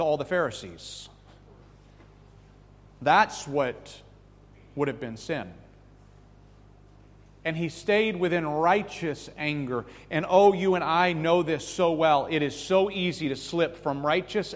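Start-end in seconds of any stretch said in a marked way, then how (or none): none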